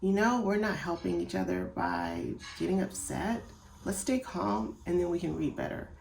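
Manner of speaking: soft, steady, reassuring reading-helper voice; calm explaining voice. Shown as a demonstration. Parent calming a frustrated child who is learning to read, soft and patient. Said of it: "explain to them".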